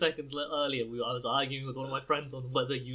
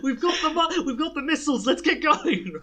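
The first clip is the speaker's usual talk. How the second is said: much higher, louder, put-on voice; hammed-up hacker; 13 semitones higher, 8 dB louder than usual. Friend announcing fake missiles, mock villain voice. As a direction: cackle it out like a cartoon villain.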